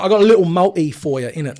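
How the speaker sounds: a hint of mock English accent. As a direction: slip into a playful English accent. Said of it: "why I did an English accent".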